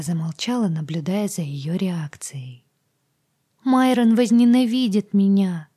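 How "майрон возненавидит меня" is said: high, loud frightened cry; panicked fear. Acted. Agata to heroine, high loud panic. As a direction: dread Myron's hatred.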